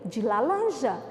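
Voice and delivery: laranja pronounced lalanja; Cebolinha's swap. Shown as a demonstration. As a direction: say laranja with an L instead of R. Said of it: "a fala de Ceboli-, do Cebolinha".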